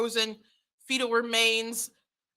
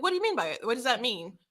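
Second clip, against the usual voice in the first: feigned puzzlement, softly voiced question; playing dumb; 4 dB quieter, faster than usual. Listener questioning a petition collector, playing dumb. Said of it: "play dumb for a second".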